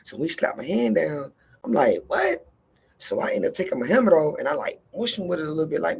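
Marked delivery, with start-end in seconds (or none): 2.1-2.5 jumps very high on "What?" in disbelief; startled, offended yelp; shocked what. Retold or imitated. His hand slapped down.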